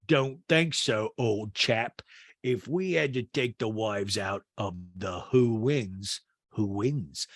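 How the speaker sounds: slow impression of a chummy chap. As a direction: imitate a man spelling out his game slowly. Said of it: "And P K goes".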